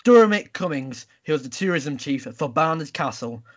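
mock newsreader with punched names; news read. Host opening the news round, newsreader delivery. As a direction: read it like a bulletin, hitting the openings.

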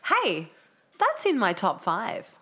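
slow, drawn-out voiceover line; slow delivery. Shown as a demonstration. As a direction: read it slowly like a promo. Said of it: "Can I try?".

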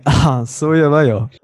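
overdone Japanese intonation; really Japanese accent. Retold or imitated. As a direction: imitate own early, over-Japanese delivery. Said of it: "like, really Japanese".

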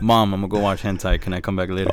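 lightly voiced son asking permission; understated impression of a son; Lou. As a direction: casually play a son asking his mom. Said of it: "That's our Martha and Lou impression".

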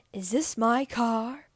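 drawn-out, slow imitation of an ad actor; imitated commercial line. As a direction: lightly mimic an upset man's question, slowly. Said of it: "looks and sounds like him, and he goes".

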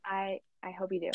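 soft unvoiced whisper. Real, not acted. Whispering a promise to her friend. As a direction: whisper it like a secret.

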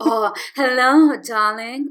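slow, suave devilish charm; Lucifer voice. Pretend. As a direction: purr it like a smooth devil. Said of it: "Oh, I love this voice of the".

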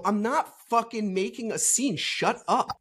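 imitated heated denial; indignant retort. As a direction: push back, retelling a public spat. Acted retort in a retold quarrel.

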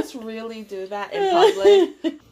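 high, loud, laughing disbelief; laughing in mock horror at a public stunt; shocked disbelief. Friend laughing at a guy's public stunt, high and shocked. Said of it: "For me, I'm like".

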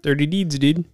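words stretched by a yawn. Real, not acted. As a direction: speak through a yawn. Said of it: "I'm yawning on here".

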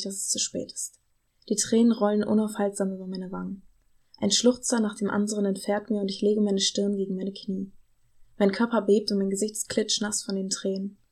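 calm, even read-aloud voice; story narration. A narrator's reading. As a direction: read the novel excerpt steadily to listeners. Liest eine Romanpassage vor. (ruhige Vorlesestimme)

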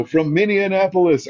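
high, loud Minne-an-apolis again; same mispronunciation. Retold or imitated. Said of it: "I said it again".

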